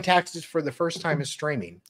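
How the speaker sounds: hushed, breathy whisper of the line; sheepish whispered admission; whispered aside. Real, not acted. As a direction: say it under your breath like a confession.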